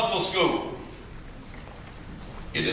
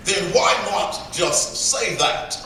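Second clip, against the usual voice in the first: slow, higher mock British question; British accent; 4 semitones higher, slower than usual. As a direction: imitate a puzzled British interviewer, drawn out. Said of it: "he asked in his British accent".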